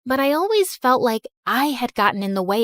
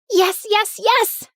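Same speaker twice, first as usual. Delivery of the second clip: higher, excited repeated yes; eager yes; 10 semitones higher, slower than usual. Acted. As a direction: jump at the chance. Daughter eager to visit aunt.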